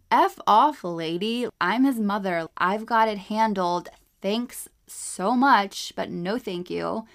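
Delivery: indignant mock outburst, punched loud at the start; retold indignant retort. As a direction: snap it like an imagined comeback, then draw out the sarcastic thanks. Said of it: "how I was feeling".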